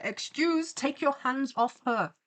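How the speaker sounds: high-pitched mock telling-off; indignant scolding. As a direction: play-act telling a villain off. Scolds villain in fan story.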